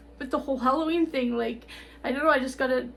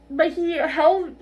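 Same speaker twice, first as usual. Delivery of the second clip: choked up; 3 semitones higher, 6 dB louder, much slower than usual. Real, not acted. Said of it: "I'm gonna cry again".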